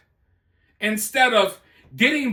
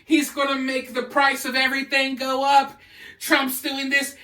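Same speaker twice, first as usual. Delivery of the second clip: mocking a panicked crowd, pitched up a little; 3 semitones higher than usual. Mocking the left freaking out over Trump's tariffs, in a mildly panicky voice. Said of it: "But the left is freaking out".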